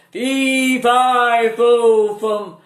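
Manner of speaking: angry giant roaring as he chases Jack. A narrator's reading. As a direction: bellow it like an enraged giant giving chase. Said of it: "roared the angry giant".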